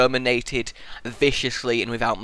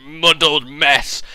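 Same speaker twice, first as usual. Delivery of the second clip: groggy; much slower than usual. Real, not acted. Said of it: "I'm in a kind of".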